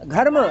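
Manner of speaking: घर्म with a clear breathy gh, not dh; aspirated gha. Shown as a demonstration. Teacher correcting the student, घर्म with gh. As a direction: start घर्म on gh, never dh. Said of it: "धर्म नहीं बोलना".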